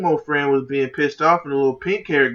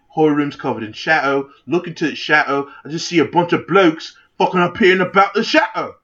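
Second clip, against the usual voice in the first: mock-British bloke telling a story; lightly put-on British accent; terrible British accent. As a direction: spin the tale in a shaky attempt at British. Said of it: "this terrible accent".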